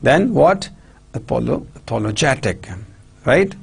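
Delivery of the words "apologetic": a-POL-o-GET-ic; "apologetic" stressed on POL and GET; double word stress. Shown as a demonstration. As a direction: show both stresses in apologetic. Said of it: "There are two stress".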